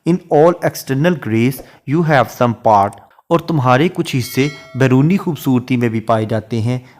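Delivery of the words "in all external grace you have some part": slow, measured reading of a verse line; poetry recitation. Shown as a demonstration. Teacher reciting a Shakespeare sonnet line to students, slow and measured. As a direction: read each word of the sonnet out slowly.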